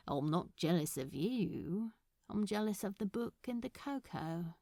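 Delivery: lightly voiced nervous suitor, halting and hesitant; shy Crowley. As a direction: fumble through the offer, trailing off. Crowley flirts shyly.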